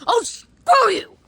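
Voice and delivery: high, loud, slow dragged-out insult; mock furious yell. Yelling back at Talking Ben, slow hammed-up insult.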